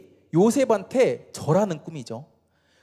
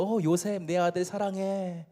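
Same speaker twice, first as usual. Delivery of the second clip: slow, softened doting words; acting out a tender, loving father; acted fatherly affection; 4 dB quieter than usual. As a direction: dote on a favourite son, drawing the words out. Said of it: "애정을 표현했다는 거예요".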